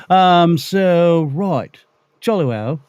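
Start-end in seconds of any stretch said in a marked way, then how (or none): 1.3-2.8 put-on British accent. Radio host practicing a British accent for upcoming things, hammed-up British accent. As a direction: talk like a chummy Brit. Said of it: "practicing my British accent".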